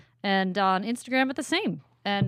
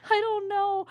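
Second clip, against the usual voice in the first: laughing; 12 semitones higher, slower than usual. Real, not acted. Laughing after teasing question.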